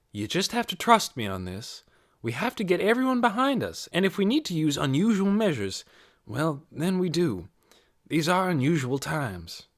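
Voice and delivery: coaxing Ralph to trust her, lightly voiced; lightly voiced Missus Beeson. To Ralph on the phone, lightly voiced coaxing Missus Beeson.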